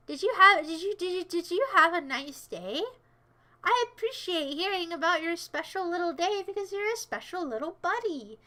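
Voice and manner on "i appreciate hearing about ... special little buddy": mock-sweet coddling, drawn toward the end; put-on sweet. Streamer fawning over a viewer's special day, put-on sweet. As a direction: coo it like talk to a little pal. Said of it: "I'm gonna be sweet now".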